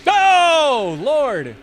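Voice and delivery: loud high yelp of surprise; jolted out of his seat; startled cry. Real, not acted. Startled by game event.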